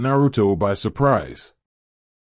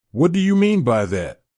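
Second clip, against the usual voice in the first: urgent; 5 semitones higher than usual. Acted. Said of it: "with an urgency in his voice".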